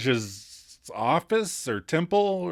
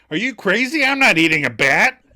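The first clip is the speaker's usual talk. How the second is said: high, louder mock outrage; duck's protest; 6 semitones higher, 6 dB louder than usual. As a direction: squawk back in outrage.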